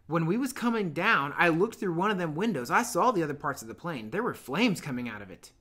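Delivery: eager schoolboy recounting the crash; fat boy's voice. Acted. Fat boy tells of crash.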